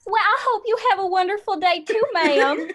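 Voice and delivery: put-on echoed Southern accent. Customer involuntarily copying the cashier back, hammed-up Southern accent. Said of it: "we just start doing it back to them involuntarily".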